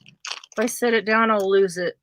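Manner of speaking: talking around a needle; needle in mouth. Real, not acted. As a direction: needle held between lips. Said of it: "I have a needle in my mouth".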